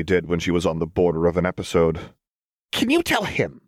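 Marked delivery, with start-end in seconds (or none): 2.7-3.6 high, strained manic voice; agitated Jinx. A narrator's reading. Jinx complaining to Lux about Fishbones, high agitated voice. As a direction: push it up high and tight.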